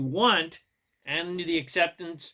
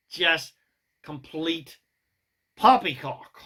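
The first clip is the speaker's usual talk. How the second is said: slightly exaggerated English accent, spaced-out words; 3 dB louder, slower than usual. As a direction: dismiss it in a mock English accent. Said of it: "Gotta say that with an English accent".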